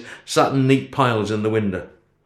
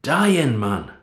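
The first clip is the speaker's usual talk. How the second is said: yelling; 3 semitones higher than usual. A narrator's reading. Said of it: "I didn't mean to yell at him".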